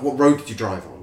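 mock-urgent small-talk question; keenly curious. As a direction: imitate someone really wanting to know. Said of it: "really, like, wanted to know".

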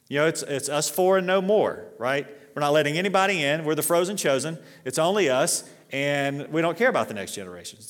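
mock smug insiders. Voicing exclusive older church.

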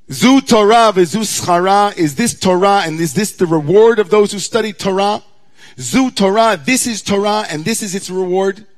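anguished scream. Acted. Moses screaming his protest up at God, anguished and loud. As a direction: cry it out like a broken man. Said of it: "Moses screamed to God".

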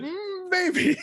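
mocking sultry voice. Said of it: "I thought you said".

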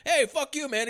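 high-pitched mock rant; worked-up, high comic imitation; imitated angry outburst. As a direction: snap it out high, as a raging actor. Acting out Cage storming off.

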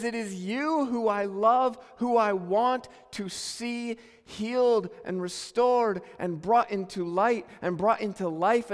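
God calling. Acted. Pastor voicing God calling to every sinner, slow loud call.

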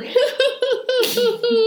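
high, loud burst of laughter; class bursting out laughing. Retold or imitated. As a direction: laugh out at the joke. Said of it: "Und alle nur so".

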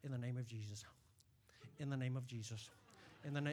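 mumbled, low, soft rote prayer; lightly mocking a rote mealtime blessing; mock rote grace. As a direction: rattle it off like a dinner grace. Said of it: "when you sit down at your dinner".

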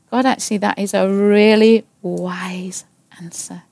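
breathy whisper of grudging agreement; whispered admission. Retold or imitated. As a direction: concede it in a whisper. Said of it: "settled it on the basis of".

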